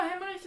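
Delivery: "hemorrhage" said as a German name, ending in "sh"; "hemorrhage" with a German sound; German-style pronunciation. Real, not acted. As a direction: end "hemorrhage" on a German-like "ish". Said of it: "that's why I pronounce it German".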